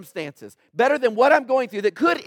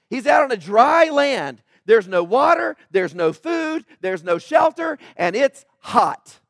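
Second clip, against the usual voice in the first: emphatic preaching; 5 dB louder, slower than usual. Real, not acted. Preacher describing David's desert flight.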